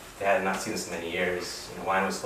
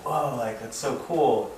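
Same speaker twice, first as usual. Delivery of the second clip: higher-pitched, impressed whoa; mock amazement; 5 semitones higher, slower than usual. Friend admiring a shiny new card, amazed. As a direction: imitate an awed kid friend.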